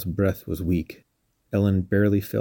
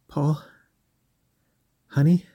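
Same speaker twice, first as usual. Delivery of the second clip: frightened call; 8 semitones higher than usual. Acted. Calling out to dead husband.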